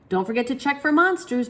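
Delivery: put-on high, loud little boy reminding; child voice. Child voice in story.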